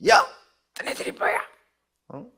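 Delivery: high, very loud husky outburst; hoarse, indignant tirade at full volume; husky furious shouting. Retold or imitated. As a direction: imitate an enraged pastor yelling hoarsely at whoever blocks the way. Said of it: "목소리가 또 이렇게 허스키하게 막 변해가지고".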